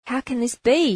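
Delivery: outraged, insisting on an answer; demanding. Acted. Monk confronting the gatekeeper at heaven's gate, loud indignant demand. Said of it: "he demanded".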